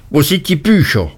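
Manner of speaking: a sudden horrified call at the empty safe; horrified cry. A narrator's reading. Uriah finding the safe empty, horrified cry. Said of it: "rief er mit entsetzter Miene".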